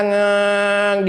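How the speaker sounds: drawn-out engine drone; hummed engine whine; motorbike noise. Retold or imitated. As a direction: imitate a motorbike passing. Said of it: "Gurunya naik kereta".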